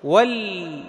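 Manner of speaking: "ول" held on a closed, vowelless l; lam with sukun. Shown as a demonstration. Teacher tells students to still the lam, "ول" ending on pure l. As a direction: say "ول" as wal, resting on the l. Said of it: "تسكن اللام".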